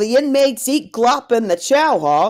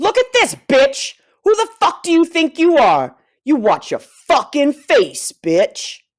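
full-tilt furious rage, nothing held back; 4 semitones higher than usual. In a scene about prison wine, performer turns on someone: all-out furious yelling. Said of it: "go full balls to the wall on that".

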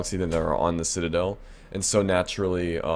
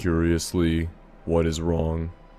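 put-on alien voice. Role-playing a scene, the speaker takes on an Elcor voice. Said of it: "I gotta be like an Alcor".

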